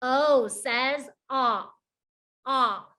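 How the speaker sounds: "ah" with the jaw dropped wide; short o sound. Shown as a demonstration. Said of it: "How wide my mouth dropped down".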